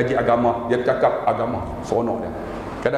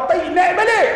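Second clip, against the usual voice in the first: louder, higher startled cry; 5 dB louder than usual. Pretend. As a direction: jump in shock mid-sentence. Startled husband at toilet. (terkejut kuat)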